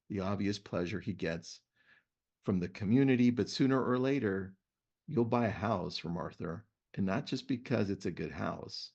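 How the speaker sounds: reading a book passage to listeners; host reading a book excerpt to his guest; reading aloud. Shown as a demonstration. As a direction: read it out like a storyteller. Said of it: "Let me read to you a story".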